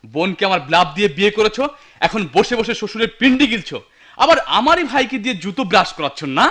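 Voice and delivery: heated telling-off; indignant, rising rant; angry scolding. Acted. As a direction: berate a useless in-law. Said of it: "এত চেঁচামেচি কিসের?".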